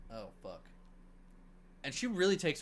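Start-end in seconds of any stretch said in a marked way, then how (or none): 0.1-0.7 "Oh, fuck" lower and much softer, fading out; a mild, understated dying villain's last words; dying groan. Retold or imitated. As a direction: breathe out "Oh, fuck" like a beaten man. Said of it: "and he's like".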